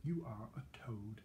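breathy unvoiced put-down; whispered insult. Elizabeth to Ronald, a whispered insult. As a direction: whisper the final blow.

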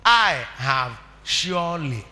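quiet, slow and drawn out; soft. Shown as a demonstration. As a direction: say it gently, almost to yourself. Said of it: "Mother, what am I?".

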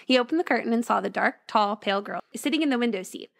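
storyteller reading a ghost tale; story narration. A narrator's reading. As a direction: read it like a spooky bedtime story. Reads a ghost story aloud.

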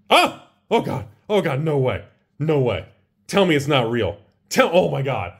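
high disbelieving cries; can't believe the pull, pleading; anguished denial. Real, not acted. Last pack reveal, disbelief.

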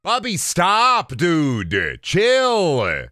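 high, slow pet-scolding voice; high coaxing telling-off to a pet; scolding the dog. Real, not acted. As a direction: sing it up high at the dog to hush her.

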